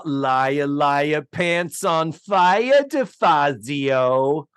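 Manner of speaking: slow mock singsong taunt, drawn out; a hammed-up schoolyard liar taunt; Rosie's taunt. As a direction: draw out the playground taunt slowly. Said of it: "I love how she says".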